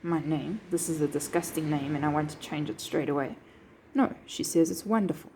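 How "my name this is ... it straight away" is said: a soft, sneering "Ugh, my name" in disgust; mock disgust. Teacher mocking a speaker who hates her name, soft disgusted tone. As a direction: pretend to hate the name, quieter. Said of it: "She doesn't say".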